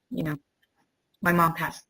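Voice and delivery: real tears held back, voice catching; fighting tears while speaking; getting emotional. Real, not acted. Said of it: "I'm getting all emotional".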